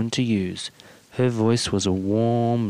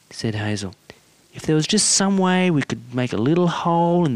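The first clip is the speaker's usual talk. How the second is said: a lightly raised, coaxing wife's voice; Hazel, coaxing wife; 5 semitones higher than usual. Acted. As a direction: gently wheedle your husband to ease his burden. Hazel pleading with George.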